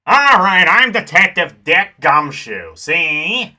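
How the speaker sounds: put-on loud old-time gangster talk; tough-guy mobster voice, see; 1930s gangster voice. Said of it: "like, gangster voice?".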